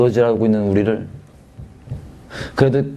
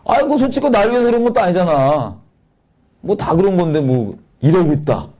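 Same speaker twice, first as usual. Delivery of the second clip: high, mocking whine; sneering sarcasm; 6 semitones higher than usual. Ungrateful son sneering at the father who paid, higher mocking tone. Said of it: "비아냥거리는 게".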